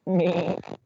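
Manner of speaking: high imitated cartoon laugh; Peter Griffin laugh. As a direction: put on a cartoon dad's laugh. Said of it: "I think that's like the voice".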